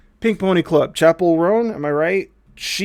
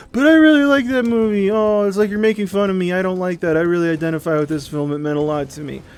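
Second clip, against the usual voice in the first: higher, wounded whine of an offended fan; hurt fan; 4 semitones higher than usual. Retold or imitated. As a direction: plead like a fan whose favourite film got mocked. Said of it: "some people might be like".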